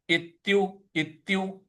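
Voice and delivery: इत्यु with weight on the half त; stressed त. Shown as a demonstration. Teacher showing stress on इत्यु. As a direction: lean on त्य in इत्यु. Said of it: "आधा त है उस पे बल लगाना है".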